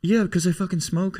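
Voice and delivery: high, exasperated retort. Real, not acted. To Hannah mentioning his discoloured teeth, exasperated. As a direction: snap back, voice jumping up high.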